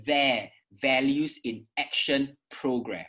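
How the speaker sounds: There with a clear TH. Shown as a demonstration. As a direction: push the TH out in There. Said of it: "with the T H come out".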